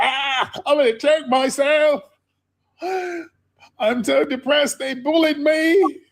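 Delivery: sobbing, very high-pitched crying wail. Imitating someone crying in a video about being bullied: mock crying. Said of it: "he did all that crying".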